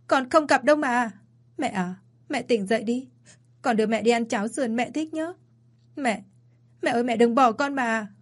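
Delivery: wailing for mother. Acted. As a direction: beg your dying mother through sobs. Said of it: "Tôi gào lên".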